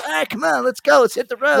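high mock hurry-up voice; high-pitched impatient friend; imitating Aaron. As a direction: pitch it way up, egging him to get going. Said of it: "he's like, he's like".

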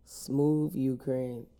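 very slow careful repeat of "Smooth Ukraine". Shown as a demonstration. Host repeats the guest's handle very slowly to get it right. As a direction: spell it out slowly. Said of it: "I thought this whole time it was smooth".

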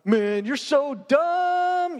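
high, drawn-out mocking whine; mocking coworker. Wait staff teasing their Christian manager, mocking. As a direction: stretch it out to tease him. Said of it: "they're like".

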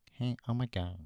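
whiny, nasal American sitcom dad. Acted. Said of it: "he's a bit nasally and whiny".

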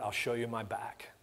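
whispered promise; hushed God voice. Retold or imitated. God whispering to Moses a tender promise. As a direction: whisper it like a secret offered. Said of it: "And he said".

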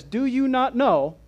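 "you" leaned on, falling, slow; "Do you not know?" with weight on "you", drawn out; stress on you. Retold or imitated. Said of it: "he's saying".

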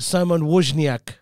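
slow, careful "Wozniak" with a "zh" in the middle; measured "Simon Wozniak", softened middle consonant; correct Polish pronunciation. Shown as a demonstration. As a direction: say "Wozniak" as "VOOZH-nyak". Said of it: "the correct pronunciation of my name".

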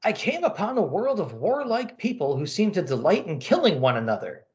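alien agent, upbeat report; cheerful alien agent. Acted. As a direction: report home, pleased.

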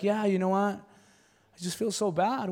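high, self-pitying mope; mock weepy. Satan confiding in the angel, mock weepy. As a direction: put on a pitiful, drawn-out mock misery. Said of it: "uncontrollably sobbing".

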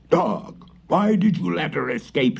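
high, angry shout at the dog; witch shouting. A narrator's reading. Witch shouting at her guard dog, high angry yell. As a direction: yell the accusation. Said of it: "shouted the witch".

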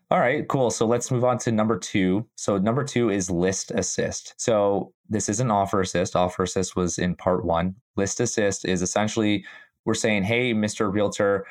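sick, slightly stuffy voice; stuffy nose. Real, not acted. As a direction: talk through a cold, a bit congested. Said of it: "Sorry, I'm sick today".

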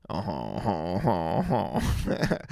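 low, slow gravelly drawn-out growl; blues-rock band voice. Shown as a demonstration. Podcaster showing off his coffee-and-herb voice, gravelly blues-rock band voice. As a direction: play up a gravelly blues-rock rasp. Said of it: "I got that blues-rock band voice".

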